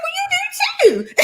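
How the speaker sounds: high, loud retort through laughter; laughing retort. Retold or imitated. Retelling a dinner party comeback, laughing loudly. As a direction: burst out laughing as you retort.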